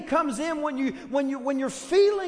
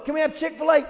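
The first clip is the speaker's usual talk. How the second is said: put-on kids begging; 3 semitones higher, 5 dB louder, faster than usual.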